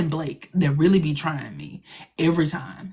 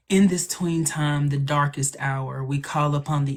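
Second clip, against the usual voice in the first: slow, measured incantation; dramatic spell recital; slower than usual. Acted. Reciting a favorite spell from the show, dramatic incantation. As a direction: chant the rhyme slowly and evenly. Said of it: "it's really dramatic".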